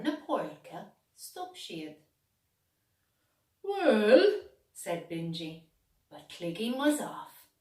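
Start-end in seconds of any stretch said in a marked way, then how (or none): 3.6-4.4 a big rising, loud well. A narrator's reading. Bingy starts to answer Clegane, loud and drawn out. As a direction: call it out with a rise.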